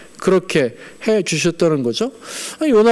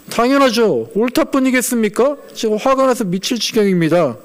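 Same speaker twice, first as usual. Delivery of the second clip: mildly defiant retort, pitched up at first; 겁없이 대드는 요나; 4 semitones higher than usual. Acted. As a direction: act out talking back to God, lightly indignant. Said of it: "자꾸 겁없이 하나님한테 대들어요". (살짝 높은 목소리로 대들듯이)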